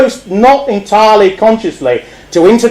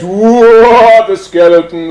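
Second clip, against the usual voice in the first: butler startled; 4 semitones higher, 3 dB louder, much slower than usual. Acted. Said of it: "the butler says".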